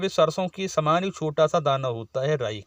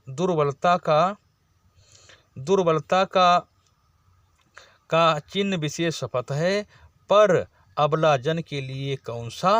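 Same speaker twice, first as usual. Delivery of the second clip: poem recital. Shown as a demonstration. Teacher reciting Kaikeyi's verse to the class, measured poem recital. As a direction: recite the verse line by line with weight.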